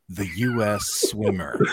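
"The U S swimmer" shouted slowly through laughter; laughing mock shout. Shown as a demonstration. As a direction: hype up "The U S swimmer" like a big reveal. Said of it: "that was better that time".

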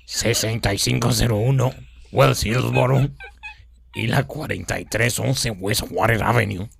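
slow, even robotic read; old speech synthesizer. Acted. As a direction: read numbers like a machine. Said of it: "esta es mi voz de robot".

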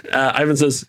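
ordinary delivery

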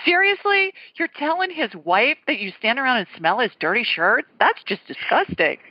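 incredulous, leaping high on the first word; mock disbelief. Wife retelling her reaction to cleaners smelling shirts, mock-appalled. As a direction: retell your appalled reaction, lightly hammed up.

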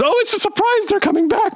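high, far-off put-on character voice; Lamar. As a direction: swoop up into a goofy high character voice. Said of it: "that voice is a character I'm working on called Lamar".

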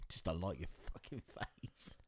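slow, low and very soft; muted mock insult. Teasing a mate's dislike of a fighter, quiet deadpan. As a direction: murmur it as a drawn-out dry jibe. Deadpan echo of friend's reason.

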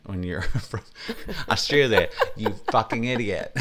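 mock-exasperated correction through laughter; laughing retort. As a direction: set the fool straight while cracking up.

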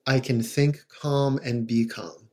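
slow, soft, even repetition; calm mantra. Shown as a demonstration. Therapist demonstrating a mantra to parents, slow and calm. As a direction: say it to soothe yourself. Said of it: "saying it in a calm, repetitive way".

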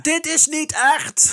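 panicked denial. Acted. Co-host voices the panicking boss.

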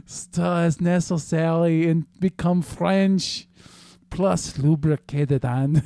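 slow, lightly sultry mock read; mock sexy read. Reading the recipe sexier on request, slow and mock sultry. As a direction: purr the recipe, hammed-up seduction. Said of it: "In a sexier voice".

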